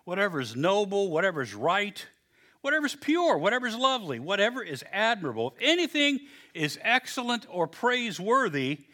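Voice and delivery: measured, rising scripture read. Acted. Preacher reading Philippians to the congregation, measured and rising. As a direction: read each whatever as a build.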